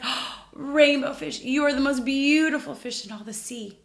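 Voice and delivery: high loud admiring voice; little fish voice. Acted. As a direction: gush like a small fish. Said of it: "He said".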